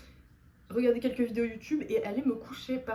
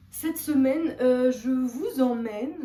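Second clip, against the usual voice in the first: louder fresh restart; 2 semitones higher, 7 dB louder than usual. Real, not acted. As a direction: pick it back up brightly. Restart after lost sneeze. (reprise plus forte)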